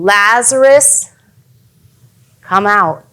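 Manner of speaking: slow, restrained calling-out; mild retold yell. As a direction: call a name slowly, only lightly projected. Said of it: "he yells out to him".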